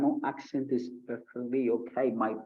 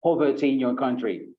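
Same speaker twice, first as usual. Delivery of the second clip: smiling answer demo; 4 dB louder than usual. Shown as a demonstration. Teacher shows students how smiling sounds while answering. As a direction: speak it through a smile, lifted up. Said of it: "But for example".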